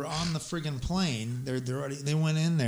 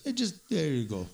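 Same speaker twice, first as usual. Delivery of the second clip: put-on Arab accent. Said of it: "I give him more of an Arab accent".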